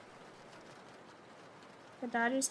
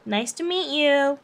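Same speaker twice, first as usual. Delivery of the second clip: fake real person voice; slower than usual. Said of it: "Interviewing for the real person job".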